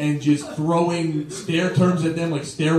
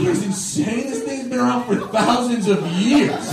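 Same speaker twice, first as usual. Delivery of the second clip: mock-indignant rant, higher pitch; snapping back; 5 semitones higher than usual. Comic retelling his argument with a booing room, snapping. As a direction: argue with the hecklers in disbelief. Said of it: "I start snapping and yelling back at them".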